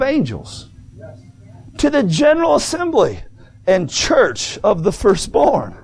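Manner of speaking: measured, declaimed Bible verse; scripture reading. Real, not acted. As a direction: read it out grandly, phrase by phrase with pauses. Reads scripture aloud to congregation.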